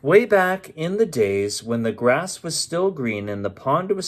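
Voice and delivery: lilting read-aloud rhyme; story narration. A narrator's reading. Narrator reads the Lorax to listeners, lilting.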